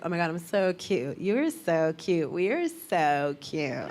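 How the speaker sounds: put-on slowing, drawn-out girly self-admiration; cute confidence. Her twenties self admiring her friends, cooing cute. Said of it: "cute confidence".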